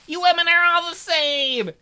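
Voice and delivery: very high, loud sobbing bear; crying tantrum. Acted. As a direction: throw a crying fit like a toddler. Bear sulks at women.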